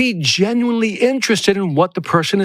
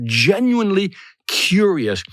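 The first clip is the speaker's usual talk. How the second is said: "genuinely" leaned on and drawn out; emphatic GENUINELY curious; stress on GENUINELY; 3 semitones higher, slower than usual. Shown as a demonstration. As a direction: punch the word "genuinely" before "curious". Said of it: "Emphasize the word genuinely".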